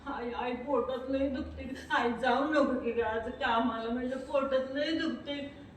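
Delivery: put-on slow, whiny child's voice; sick little girl. Girl begs her mother to stay, slow and whiny. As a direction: drag the words like an aching child.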